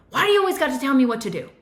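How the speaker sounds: imitating an angry child snapping at a parent; exploding child. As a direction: rattle it off as a resentful kid pushing back. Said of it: "They start exploding".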